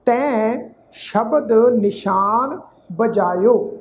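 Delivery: slow, phrase-by-phrase recital with long pauses; measured scripture recitation. Real, not acted. Teacher reciting gurbani to the sangat, slow and measured. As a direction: recite each phrase deliberately, letting it settle.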